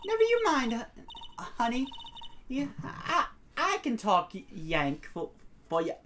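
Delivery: halting Southern voice, starting high; stuttering Southern accent. Acted. Photographer reassuring shy visitor, stuttering Southern accent. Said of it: "I hate my stutter".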